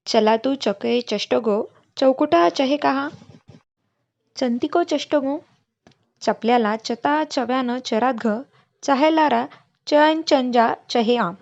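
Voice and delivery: every word starts with चके, चष्टगो, चौकुटा, said slowly; slow, deliberate child's secret code with चला and चहे; a boy reeling off the चच्या भाषा code words slowly and proudly; cha secret language. Retold or imitated. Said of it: "तो चच्या भाषेत म्हणाला".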